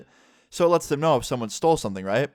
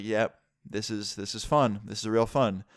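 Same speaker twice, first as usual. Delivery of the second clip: dry as dust, clearly not fun; sarcastic. Retold or imitated. Sarcastic remark while being detained.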